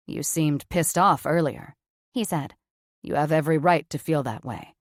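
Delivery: blunt surgeon, low and flat. Acted. Cameron's voice, lower.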